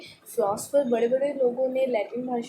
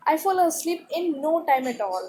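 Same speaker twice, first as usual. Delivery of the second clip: slow, clear read-aloud for a class; 3 semitones higher, much slower than usual. Acted. Teacher reading the paragraph to students, slow and clear. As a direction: read each word slowly to pupils. Reads text slowly.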